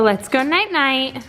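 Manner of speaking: slow, gentle bedtime words; soft bedtime voice. Real, not acted. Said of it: "repeated higher to baby".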